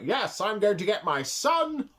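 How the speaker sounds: mock villain, drawn out and slow; scheming villain. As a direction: lightly play the smug schemer. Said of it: "And he's like".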